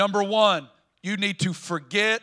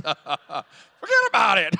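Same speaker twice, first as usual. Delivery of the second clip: put-on New York accent; 4 dB louder, slower than usual. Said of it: "I like New York Jesus".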